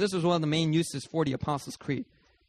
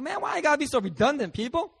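exasperated complaint; 6 semitones higher than usual. Retold or imitated. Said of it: "I'd be like".

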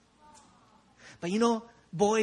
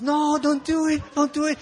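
high, loud mock warning; imitated friends; 7 semitones higher, 5 dB louder than usual. Friends beg the boy not to jump, high imitated warning. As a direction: plead loudly as the alarmed friends. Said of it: "And all my friends".

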